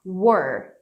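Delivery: we're said like were, one syllable. Shown as a demonstration. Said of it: "como se estivesse pronunciando isso daqui". (we're pronunciado como were)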